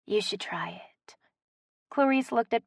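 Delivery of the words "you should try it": soft conspiratorial whisper. A narrator's reading. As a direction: lean in and whisper it. Offering a joint, aside.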